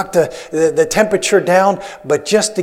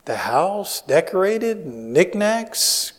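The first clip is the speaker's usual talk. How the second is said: lightly voiced puzzled husband, softer and slow; understated husband's inner voice; bemused husband; 2 semitones higher, 7 dB quieter, much slower than usual. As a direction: think aloud slowly as a baffled husband. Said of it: "And the guy's thinking".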